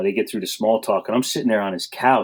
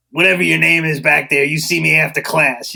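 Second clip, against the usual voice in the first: higher, louder stern order; stern teacher call; 7 semitones higher, 5 dB louder than usual. Retold or imitated. Teacher summoning the student to stay after class, loud and stern. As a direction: call him out from across the room.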